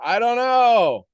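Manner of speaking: hammed-up I don't know; loud mock whine. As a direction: whine it out like a stuck person. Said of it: "What are you waiting for?".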